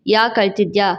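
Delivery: low, severe male voice; stern husband. A narrator's reading. Husband glaring at his crying wife, low and stern. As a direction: drop the pitch and question sternly. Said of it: "ಎಂದ ದುರುಗುಟ್ಟಿ".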